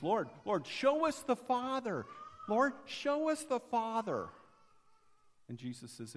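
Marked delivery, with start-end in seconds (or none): 0.0-4.3 pleading call. Retold or imitated. Philip pleading with Jesus.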